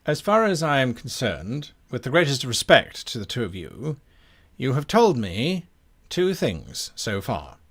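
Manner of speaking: polite, formal challenge with firm reserve; a hint of an officer laying out a case; courteous but suspicious captain; lightly voiced guard captain.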